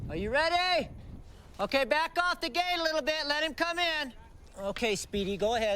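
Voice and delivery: calling out. Working at the gate, calling to a helper, calling out. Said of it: "[calling out]".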